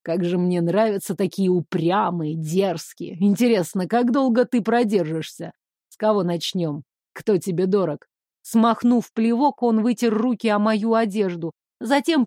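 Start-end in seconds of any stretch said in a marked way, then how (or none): 0.0-8.1 ниже, тягуче и злорадно; наслаждаться её упрямством; смакующий злодей. Acted. (злодей злорадно смакует)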